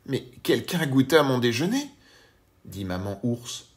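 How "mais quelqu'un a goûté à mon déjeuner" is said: higher mother bear, lightly voiced; gentle Mama Bear voice. A narrator's reading. Mama Bear answers her husband, in a gentle mother-bear voice. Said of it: "de sa voix douce".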